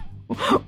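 amused laugh. Real, not acted. Laughs at the nickname Sinistro.

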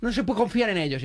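high mimicry of squeamish distrust; retold revulsion. Date explains distrust of cats, high imitated revulsion. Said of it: "al ver a mi gato y dice".

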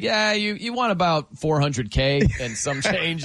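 a shrug of a correction, started high; mock deflating correction. Scribbled envelope note taking the prize back, wry letdown. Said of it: "it's just scratched out like".

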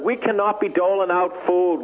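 normal talking voice

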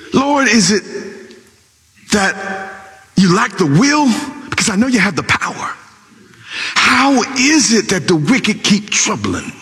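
a lightly voiced aggrieved prayer; complaint poured out to the Lord; complaining prophet. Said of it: "he began to complain".

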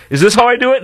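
high, innocent mock voice; imitating clueless wife. Host mimicking wife at the gun range, high innocent voice. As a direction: play the naive newbie asking sweetly. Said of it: "while they go".

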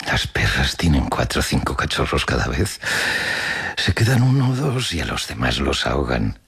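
a hint of a harsh old woman; lightly voiced callous grandmother. Grandmother compares twins to drowned puppies, understated callousness. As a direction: play the hard-hearted grandmother, with restraint.

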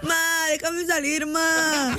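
drawn-out pleading kid, imitated; súplica de niño. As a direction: plead like a child begging mom. Child begging mother to go out. (rogando como niño, alargado)

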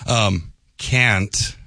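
"can't" with a flat Dakota a, kʰæ̃nt; drawn-out North Dakota "can't"; North Dakota accent. Shown as a demonstration. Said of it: "let me do my best North Dakota accent".

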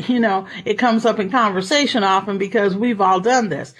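ordinary talk, nothing marked

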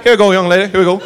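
walk her out kindly; folksy Southern cop. Retold or imitated.

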